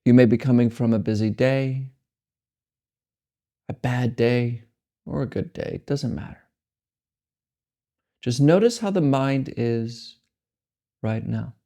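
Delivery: unhurried meditation guidance with long silences between phrases; measured, spacious delivery, letting each phrase settle; guided meditation. Acted. Meditation guide helping listeners accept the mind as it is, unhurried guidance.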